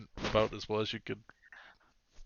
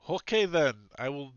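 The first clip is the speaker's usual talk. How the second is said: lightly put-on Spanish accent; reluctant guard with a touch of Spanish; hint of Spanish accent; 3 semitones higher, 3 dB louder than usual. Guard agrees to the suggestion, light Spanish accent. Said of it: "Why am I speaking like this".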